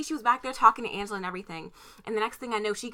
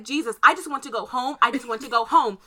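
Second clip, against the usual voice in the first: mock pleading whine; 3 semitones higher than usual. Own whining reaction, retold.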